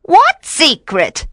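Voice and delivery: high, slow innocent witch voice; witch playing dumb. A narrator's reading. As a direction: act like you know nothing. Witch feigns ignorance.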